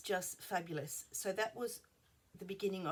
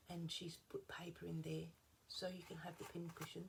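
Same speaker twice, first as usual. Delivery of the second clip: whispering; 6 dB quieter than usual. Real, not acted. Whispered aside.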